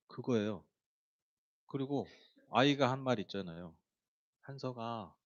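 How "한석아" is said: put-on hushed, affectionate call to a child; warm name-calling. Showing how the child wants to be called, warmly. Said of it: "따뜻하게 나를 불러줬으면".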